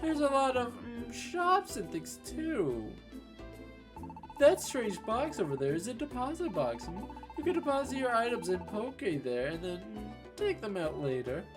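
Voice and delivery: lightly voiced upbeat companion; cheerful game character. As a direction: read the partner's lines brightly. Reads game partner's lines.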